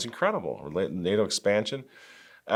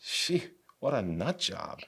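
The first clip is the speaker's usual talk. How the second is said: whispered, much softer aside; breathy whispered relief; relieved whisper; 10 dB quieter than usual. Retold or imitated. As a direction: whisper it like the crowd is finally relieved. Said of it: "everybody's like".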